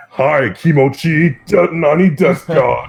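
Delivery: put-on high, slow anime girl voice; squeaky fake anime girl voice; excited anime fan. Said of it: "my build with my voice".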